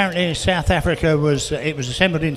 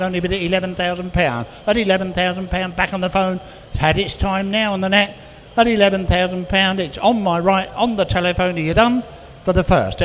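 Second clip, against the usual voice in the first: brisk, sing-song bid calling; auctioneer calling bids; 2 semitones higher than usual. Acted. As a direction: rattle off the bids to the room.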